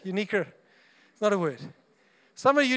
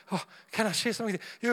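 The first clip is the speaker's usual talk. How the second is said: nervous rush; 4 dB quieter, much faster than usual. Retold or imitated. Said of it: "You build up all your courage".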